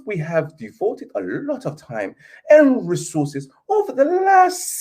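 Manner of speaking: posh British letter voice. Pretend. YouTuber reading the Glazer statement to fans in mock-posh British. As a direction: read it like a love letter, lightly posh. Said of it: "I'll say it in my British accent, like I read a letter to my dearest love".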